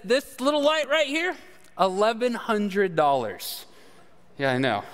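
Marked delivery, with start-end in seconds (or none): 0.0-3.7 a touch of the mechanic, laying out the price; mechanic quoting price. Retold or imitated. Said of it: "He says".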